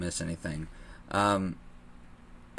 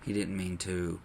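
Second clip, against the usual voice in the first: cowardly dad; 3 semitones lower, 5 dB quieter than usual. Retold or imitated. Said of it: "cowardly in the aspect of".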